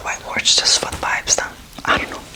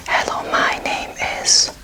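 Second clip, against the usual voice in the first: Hello, my name is said slowly; slow whispered English; slow English line. Shown as a demonstration. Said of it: "So yet again, fairly similar".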